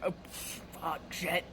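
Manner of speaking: hushed, breathy stunned swearing; retold whispered curse; stunned aside. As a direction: swear under your breath, taken aback. Cashier's stunned aside under breath.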